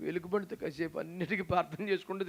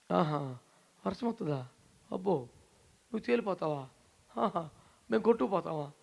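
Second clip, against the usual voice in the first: sarcastic. Retold or imitated. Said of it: "ఎటకారం ఒక్కొక్కటి టన్నుల కొద్దీ ఉంది".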